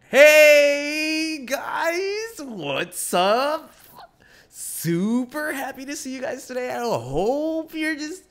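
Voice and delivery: very high, loud shouted greeting, slowing at the end; fake vlogger hello. Shown as a demonstration. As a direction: belt an overexcited fake YouTuber intro. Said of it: "that shit is obviously fake".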